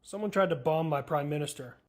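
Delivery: normal talking voice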